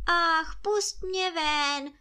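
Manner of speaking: high, pleading wail of a trapped spirit; pitiful wail. A narrator's reading. Spirit begs the boy to free him, high wailing plea. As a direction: beg to be let out, voice lifted high. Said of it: "duch přežalostně volal".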